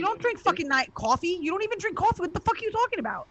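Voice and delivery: mock him in disbelief; exasperated scoff. Real, not acted. Scolding husband's claim.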